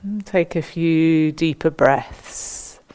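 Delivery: measured meditation guidance with long pauses between instructions; guided meditation. Acted. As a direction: guide them gently into standing stillness, phrase by phrase. Leads standing body-awareness meditation.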